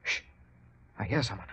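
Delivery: softly warning of someone near; hushed. Acted. Watson alerting Holmes in the dark study, hushed. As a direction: keep it low, an intruder is close. Hiding from an intruder.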